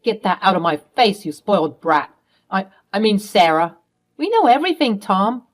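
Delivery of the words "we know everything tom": accusing. Acted. Confronting stepfather Tom.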